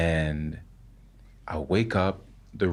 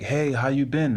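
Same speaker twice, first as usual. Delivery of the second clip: grandfather voice; 7 semitones higher than usual. Retold or imitated.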